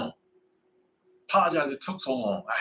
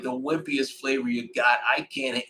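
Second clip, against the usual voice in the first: dad line; slower than usual. Retold or imitated. Ordering wings, he slowly hams up his corny dad line. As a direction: savor each word like a proud corny dad. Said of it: "I'm like".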